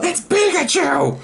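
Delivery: excited laughing shout; pictionary guessing. Real, not acted. Drawing guess game.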